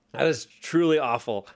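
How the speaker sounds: sour-faced groan; puckering from sour drink. Real, not acted. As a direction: lips puckered from the sour taste. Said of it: "It's so sour, you guys".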